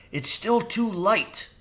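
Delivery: high crow voice; nervous bird. Acted. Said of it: "Jeremy whispered".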